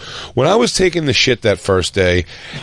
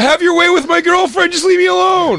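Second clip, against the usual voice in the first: hammed-up terrified pleading; mock panicked plea. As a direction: beg the mouse for mercy.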